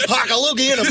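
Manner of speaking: high, hammy fake Asian accent. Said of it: "That don't sound Asian".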